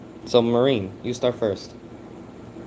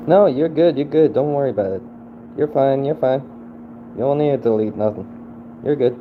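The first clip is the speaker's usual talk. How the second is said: louder, higher, urgent reassuring; loud reassurance; 5 semitones higher, 4 dB louder than usual. Real, not acted. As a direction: call out to calm them down. Reassuring someone who is deleting things.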